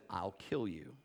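low, soft menacing threat. Retold or imitated. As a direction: drop low like a dark presence. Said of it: "He said".

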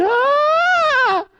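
loud, high mock child scream; child's scream. Daughter screaming at the sight of her blood, loud high scream. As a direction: cry out in panic at blood.

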